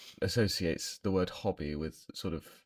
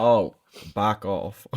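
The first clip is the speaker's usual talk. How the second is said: put-on Welsh accent; 7 dB louder, much slower than usual. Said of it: "I got it from the Welsh accent".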